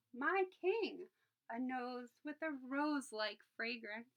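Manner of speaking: pleading. Acted. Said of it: "it pleaded".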